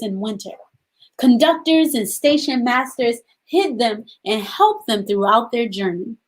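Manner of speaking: put-on gentle read-aloud for young children; storybook reading. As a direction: read the story to the class, unhurried. Teacher reads author's note aloud.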